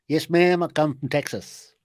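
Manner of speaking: lightly put-on Texan accent. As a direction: play a polite Texan, American accent. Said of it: "have I got a Yank accent".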